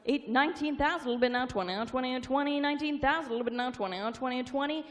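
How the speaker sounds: rapid rolling auction chant; auctioneer. Real, not acted. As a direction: rattle off the bids like an auctioneer.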